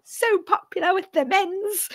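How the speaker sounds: laughing. Real, not acted. Friend teasing about the slave Leia costume, laughing. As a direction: giggle out the repeat.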